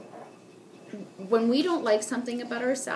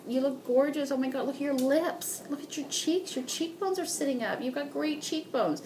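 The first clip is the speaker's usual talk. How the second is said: higher-pitched gushing compliments; acted excitement; 5 semitones higher than usual. Women complimenting each other's makeovers, excited gushing. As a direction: gush admiringly, pitched up. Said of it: "basking in that excitement".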